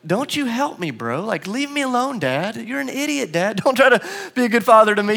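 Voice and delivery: put-on a three-year-old brushing off his dad; stubborn little boy. Son Jack voiced refusing help.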